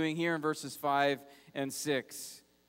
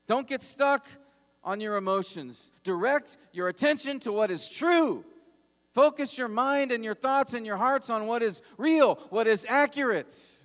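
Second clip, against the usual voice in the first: higher and louder, commanding self-talk; urgent self-rebuke, raised and forceful; David preaching to himself; 5 semitones higher, 5 dB louder than usual. Retold or imitated. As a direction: shout the truth at your own soul. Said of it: "grabs himself and takes himself aside, says".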